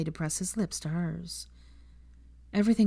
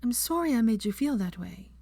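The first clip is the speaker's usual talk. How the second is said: voice breaking; 5 semitones higher than usual. Acted. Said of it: "her voice broke".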